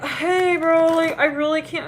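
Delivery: high, put-on excuse voice; mock bailing friend. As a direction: imitate a flaky pal begging off.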